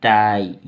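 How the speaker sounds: टाई loud and low with a long "aai"; pronunciation demo. Shown as a demonstration. Teacher showing how this is pronounced, emphatic demo of टाई. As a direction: model टाई as one emphatic word. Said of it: "इसको बोलेंगे".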